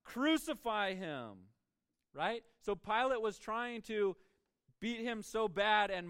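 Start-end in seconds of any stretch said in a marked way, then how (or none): 0.0-1.5 drawn-out mock crowd shout; raised, slow chant of a mob; crying out. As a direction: call it out like a demanding crowd, stretching the words. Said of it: "they cried out".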